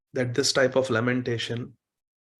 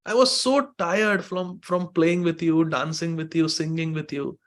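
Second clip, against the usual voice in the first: Radha crying out; 3 semitones higher, 4 dB louder than usual. Acted. Maidservant Radha begging Krishna's forgiveness, crying out. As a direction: plead for mercy, voice straining. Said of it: "Shri Radha cries out".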